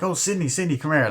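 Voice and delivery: high, pushy reporter calling out; Gail. Retold or imitated. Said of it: "pressuring her".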